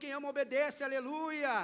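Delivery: loud, joyful shout of faith; loud declaration. Shown as a demonstration. Pastor modelling what to tell the neighbour, shouted. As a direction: call it out to your neighbour. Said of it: "e fala assim".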